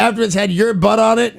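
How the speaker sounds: put-on second try at the New Zealand accent. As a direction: quote the New Zealand boss in a Kiwi accent. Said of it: "New Zealand accent".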